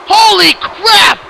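drawn-out astonished cry; stunned exclamation. Real, not acted. Commentator stunned by Akuma still fighting, drawn-out cry. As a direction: let it out slowly in disbelief. Wrestling commentator reacting to a move.

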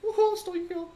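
very high, loud victory whoop; gloating cheer. Real, not acted. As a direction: crow over the stolen kill. Gloating after stealing kill.

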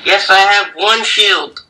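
slow, deliberate answer; slow mock. Real, not acted. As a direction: drag each word out. Answers in mocking slow manner.

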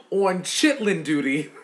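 punchline squeezed out through laughter; laughing. Real, not acted. Telling viewers about chitlin duty, laughing. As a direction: deliver the punchline while still laughing.

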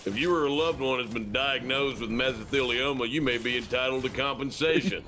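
mock lawyer-commercial read; lightly voiced advert announcer; parody legal advert. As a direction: recite it like a TV compensation ad.

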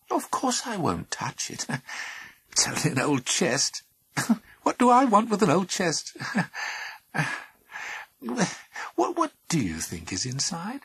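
laughing. Acted. Pandora laughing it off.

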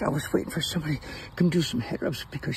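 cat voice. Pretend. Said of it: "she says".

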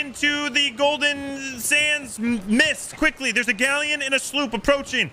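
pirate captain voice. Acted. Rallying the crew like a captain.

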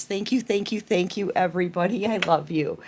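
quiet, tender thank-yous; soft thanks. Real, not acted. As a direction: speak softly, full of gratitude. Thanking viewers softly.

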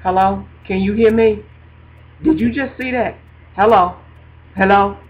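repeated checks for a listener, spaced by pauses; mock-incredulous, as if the line were dead; calling God. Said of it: "I start calling God".

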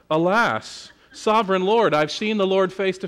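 lightly grand, theatrical stage reading; Shakespeare in the Park. Shown as a demonstration. Preacher mocking a stagey reading of Gideon. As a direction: recite it like a stiff stage actor. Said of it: "Instead of this kind of Shakespeare in the Park".

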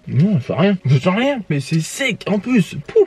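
talking while chewing; muffled by food; mouth full, chewing. Real, not acted. Seen 1: Speaker unsure; white-shirt man bites at 0.9, then chews.

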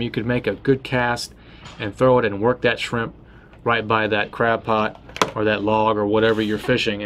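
ordinary delivery

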